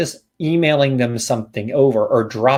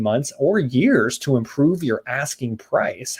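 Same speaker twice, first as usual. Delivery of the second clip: slow script read. Shown as a demonstration. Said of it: "I'm gonna say it slow".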